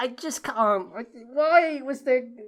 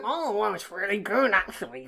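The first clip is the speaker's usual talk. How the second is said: mocking co-host; 5 semitones lower, 3 dB quieter than usual. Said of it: "you're going to be like".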